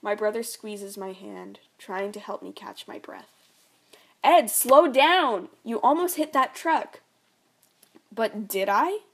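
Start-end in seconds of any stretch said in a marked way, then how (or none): 4.2-7.0 panicked scream. Acted. Mother screaming at drunk driver. 8.1-9.0 slurring. Acted. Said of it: "he slurs".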